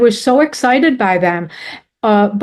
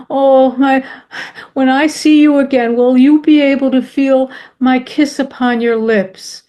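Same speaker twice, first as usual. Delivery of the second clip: a hint of a longing husband's plea; husband's tender voice; 3 semitones higher than usual. Husband asking his late wife about her kiss, lightly voiced, tender. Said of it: "He said".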